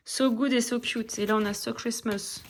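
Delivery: carefully put-on English accent on the titles; best English accent. Shown as a demonstration. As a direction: show off your best English accent, lightly. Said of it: "J'ai pris mon plus bel accent". (avec son plus bel accent anglais)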